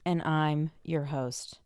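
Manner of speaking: slow, creepy ghoul voice. Acted. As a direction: talk like a lurking ghoul. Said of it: "You sounded like a ghoul".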